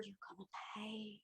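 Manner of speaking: whispered threat in the ear; whisper in left ear. Acted. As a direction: hiss it close into an ear. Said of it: "I whisper into your ear".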